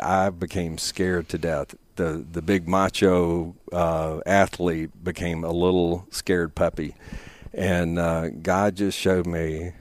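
holding back tears, slow; slow, choked-up telling; after crying. Real, not acted. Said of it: "sorry, get a little teary here".

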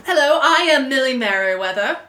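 a hint of a bad British accent; lightly put-on British accent, barely there; fake British accent. Player greeting the table as Millie, faint fake British accent. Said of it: "with a terrible fake British accent".

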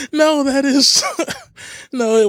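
high bursts of laughter between words; cracking up. Real, not acted. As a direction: break into laughter while trying to answer. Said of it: "why that cracked me up".

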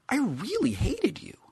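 hushed, slow admission; whispered confession. A narrator's reading. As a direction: whisper the old grudge. Wil confesses old hatred.

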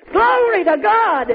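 slow, high cry of praise; joyful shout. Retold or imitated. Healed man leaping in the temple, joyful shout. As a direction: draw out the praise as a high call. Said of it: "Leaping and shouting".

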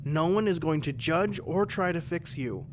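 a hint of a soothing therapist; counselor voice. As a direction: lightly play the calm counselor. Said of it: "I'm trying to get my inner city counseling on".

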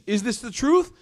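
high-pitched, incredulous asking; shocked question. Acted. Akhnas asking about the recitation, shocked. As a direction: press him in disbelief. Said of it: "They look at him shocked".

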